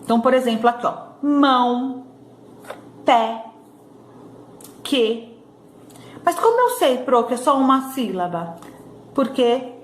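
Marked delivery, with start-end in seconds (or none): 1.2-5.4 "mão", "pé", "que" each said alone with a long pause; one-syllable examples. Shown as a demonstration. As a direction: set out "mão", "pé", "que" as single sounds. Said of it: "São palavras que têm só uma sílaba". ("mão", "pé", "que" pausados, um som de cada vez)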